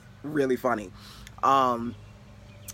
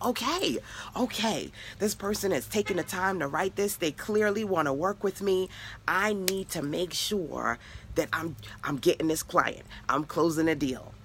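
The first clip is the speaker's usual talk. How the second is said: higher, eager inner voice; excited self-talk; 6 semitones higher than usual. Retold or imitated. Coach acting her own eager thoughts about a new client, excited. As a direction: talk yourself into the sale, thrilled. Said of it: "You're excited".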